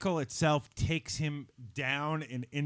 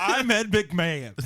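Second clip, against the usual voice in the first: Ed McMahon impression; 3 semitones higher, 3 dB louder, slower than usual. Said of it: "And now my Ed McMahon".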